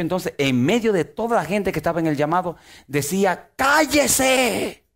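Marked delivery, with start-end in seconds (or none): 3.6-4.8 sudden high yell; the possessed young man yelling at the preacher. Retold or imitated. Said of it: "Y comenzaba a gritar".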